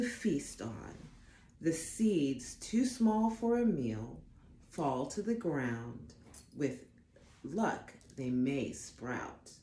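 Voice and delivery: gentle storybook read-aloud; unhurried storytime narration; reading to children. Acted. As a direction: read it like a bedtime picture book. Reads picture book aloud.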